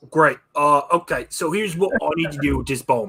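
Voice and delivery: put-on growly orc character voice. In a role-play scene, speaking as an orc, in an orc voice. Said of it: "I'm gonna stop talking like an orc".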